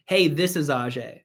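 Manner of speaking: stranger's introduction. Shown as a demonstration. Caller saying "this is" as if you don't know each other, distant. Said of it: "sound like we don't know each other".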